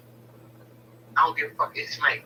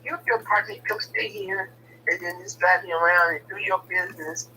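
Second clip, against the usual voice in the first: mock sweet offer; 4 semitones higher than usual. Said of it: "so she's like".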